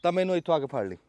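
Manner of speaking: dramatic loud aunty. Real, not acted. Boasting challenge about the peaches.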